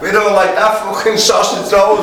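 cracking up while doing the line; laughing quote. Real, not acted. Retelling the sausage roll bit to mates, laughing.

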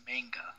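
"manga" as MANG-guh; flat A as in "bang" in "manga". Shown as a demonstration. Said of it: "'cause it's M A N G A".

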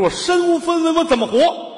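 high, loud theatrical wail; hammed-up despairing wail; wailing lament. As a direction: cry out your ruin to the heavens. Comic lament to rich friend.

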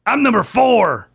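a hint of a dopey clone. Dim clone voiced in story.

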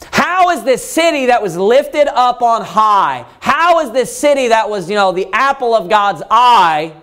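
slow, stunned question; mild astonished preacher voicing the author; amazed lament. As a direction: mourn the fallen city in wonder. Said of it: "he's looking around in amazement".

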